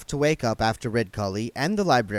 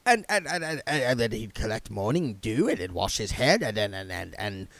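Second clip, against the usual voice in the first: stammering. Acted. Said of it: "words started to come out by themselves".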